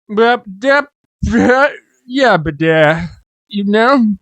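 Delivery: put-on high, mumbled hillbilly accent. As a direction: do a hillbilly you can't understand.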